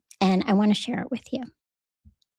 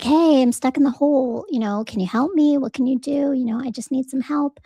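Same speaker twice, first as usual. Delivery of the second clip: mildly raised, pleading call; 4 semitones higher than usual. Acted. Trapped man calls to a passerby from the hole, calling out. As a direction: call up for help, a little higher. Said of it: "and he calls out".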